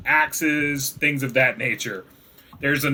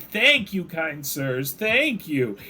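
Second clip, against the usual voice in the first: a little creature bowing and thanking; squeaky kobold; 2 semitones higher, 3 dB quieter, much slower than usual. Acted.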